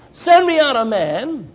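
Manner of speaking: loud, slow giant's challenge; booming challenge. Acted. Goliath calling across the valley for an opponent, booming slowly. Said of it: "with that huge booming voice".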